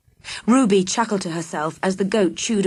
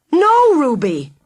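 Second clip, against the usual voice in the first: high, loud, drawn-out scream; desperate shout as she speeds off; 7 semitones higher, 6 dB louder, slower than usual. Acted. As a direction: scream it after her in panic. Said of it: "he screamed".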